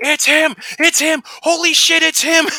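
very high, loud, drawn-out shrieking scream. Retelling jumping up from the couch: retelling his own screaming. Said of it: "And I'm screaming".

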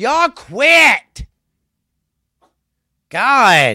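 loud, high-pitched yelling. Telling noisy kids in the background to quit: yelling at noisy kids. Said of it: "Didn't mean to yell like that".

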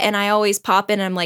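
ordinary talk, nothing marked

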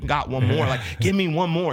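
forceful, hard-pushing yell. Retelling pushing her to do one more step-up with dumbbells: retelling a yell. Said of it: "And I'm like yelling at her".

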